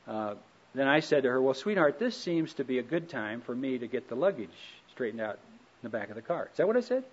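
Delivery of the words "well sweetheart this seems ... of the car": mildly gentle, reasonable tone; the nice version he wishes he'd said; sweet polite version. Retold or imitated. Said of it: "Oh, no, that's not what I said".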